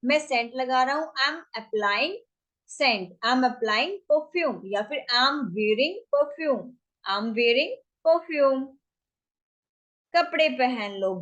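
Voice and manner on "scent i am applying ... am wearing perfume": drawn-out teaching delivery; slow demo phrase; slow model phrase. Shown as a demonstration. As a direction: stretch it so learners can follow. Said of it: "teacher models English sentences".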